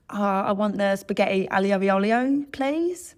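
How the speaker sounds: anglicised Italian dish name with a rising, questioning end; non-Italian accent. Shown as a demonstration. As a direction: order in a hammed-up English-speaker's accent, no Italian. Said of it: "that sort of spectrum of accent".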